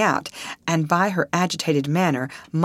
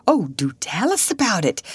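eager, higher-pitched plea; begging; 6 semitones higher than usual. A narrator's reading. Woman asking Alice for her adventure, eagerly begging. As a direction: beg to hear the story. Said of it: "begged Miss Pennington".

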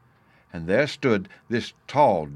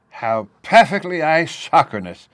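high, loud delighted exclamation; enthusiastic; 9 semitones higher, 11 dB louder than usual. A narrator's reading. Professor watches the boy swing with watch in hand, enthusiastic. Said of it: "the professor exclaimed with enthusiasm".

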